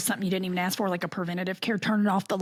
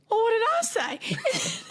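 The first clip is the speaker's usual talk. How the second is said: laughing husband quote; 13 semitones higher than usual. Retold or imitated. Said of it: "And he goes".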